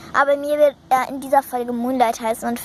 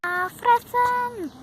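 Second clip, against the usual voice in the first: excited cry; 12 semitones higher, much slower than usual. Pretend. Horse spots food.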